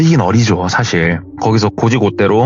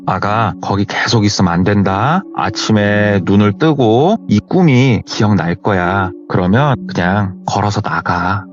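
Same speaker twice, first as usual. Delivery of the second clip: slow, lower, tender reassurance; soothing; 3 semitones lower than usual. Retold or imitated. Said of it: "본인을 달래주더래요".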